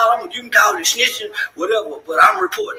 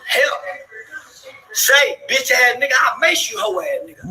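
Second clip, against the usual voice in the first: half-hearted retold yell, pitched higher; mock hollering for help; 6 semitones higher than usual. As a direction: act out calling for help without much force. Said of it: "So I started hollering".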